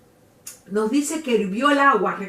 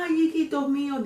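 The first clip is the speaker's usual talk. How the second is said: acted wail; 4 semitones higher than usual. La Llorona cries for her lost children, wailing. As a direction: wail the "ay" like a grieving mother. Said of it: "se conoce como La Llorona".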